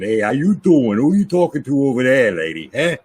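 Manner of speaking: mock New York heckler, "how you doing"; New York accent. Improvising in the makeup chair, playful New York accent. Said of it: "we did this New York accent".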